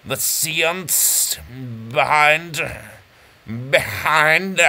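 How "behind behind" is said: "behind" stretched into three syllables; extra syllable. Shown as a demonstration. Host counting his padded syllables, "behind" in three beats. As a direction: add a drawn-out beat to the end of "behind". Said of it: "that's three syllables".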